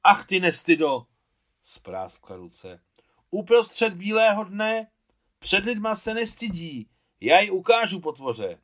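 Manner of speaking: high, loud, shocked tirade; outraged scolding. A narrator's reading. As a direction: tear into her, scandalised. Mother scolds at window.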